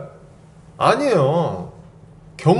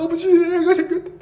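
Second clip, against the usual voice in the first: high, laughing and near tears; joyful announcement; 11 semitones higher than usual. Retold or imitated. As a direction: tell dad the big news, overjoyed. Calling father with baby news.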